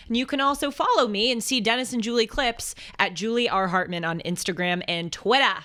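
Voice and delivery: light Boston accent. Real, not acted. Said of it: "as I say in my Boston accent".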